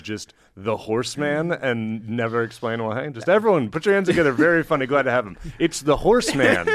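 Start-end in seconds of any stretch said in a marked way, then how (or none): 3.1-6.7 high, loud club emcee intro; stand-up emcee. Pretend. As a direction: hype the crowd for the next act. Introducing a comic on stage.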